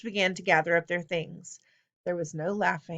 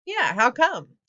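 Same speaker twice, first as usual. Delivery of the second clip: loud, higher chorus of protest; kids yelling; 5 semitones higher, 5 dB louder, slower than usual. A narrator's reading. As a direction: back up the rebel with a yell. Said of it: "three or four other kids yelled".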